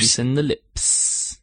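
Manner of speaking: slow, crisp elocution-lesson diction; prim precise elocution. Pretend. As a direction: shape each word with care. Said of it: "that voice thing you did".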